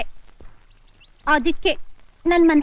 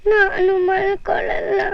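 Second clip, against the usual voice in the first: tearful refusal. Acted. Child refuses sleep, crying.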